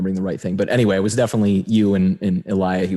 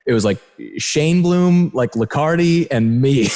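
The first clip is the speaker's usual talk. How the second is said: mock-impressed, higher-pitched quote with drawn-out names; sarcastic; 4 semitones higher than usual. Retelling a friend's funny story about famous photographers, sarcastically. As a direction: lightly imitate a friend's sarcastic name-dropping. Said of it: "just, like, sarcastically".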